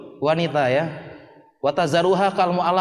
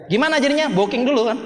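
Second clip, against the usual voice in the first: much higher, louder, giggling; mock eager; 8 semitones higher, 4 dB louder than usual. Preacher voices student eager to reserve a bride, much higher. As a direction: pitch it like a giddy schemer. Friend's eager plan retold.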